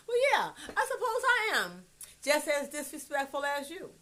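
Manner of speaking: high, loud laugh through the words; laughing admission. Real, not acted. Mother laughing as she admits her own disrespect. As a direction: laugh it out while conceding.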